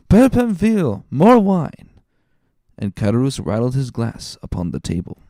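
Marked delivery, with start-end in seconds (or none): 0.1-1.9 calling out. Acted. Calling the innkeeper for wine.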